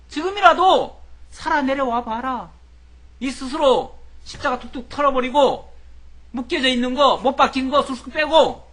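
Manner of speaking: loud, high-pitched jeering challenge; taunting the crucified man, loudly; mocking taunt. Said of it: "조롱할 때 그렇게 말합니다".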